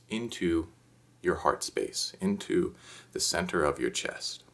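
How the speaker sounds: calm, measured meditation guide; lightly hushed instructional meditation voice; guided meditation. Acted. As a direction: gently guide listeners through it, with unhurried pauses.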